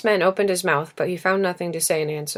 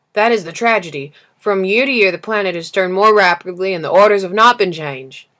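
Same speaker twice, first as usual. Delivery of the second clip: put-upon lamplighter pushing his complaint louder; weary lamplighter, louder; 6 dB louder than usual. Acted. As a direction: grumble about the job like an overworked man. Lamplighter laments.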